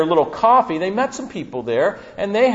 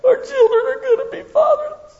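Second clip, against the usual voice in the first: much higher, blubbering fake sob; hammed-up whining of a crybaby nation; mock crying. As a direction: wail it like a tearful child, clearly overdone. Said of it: "Can you just hear this?".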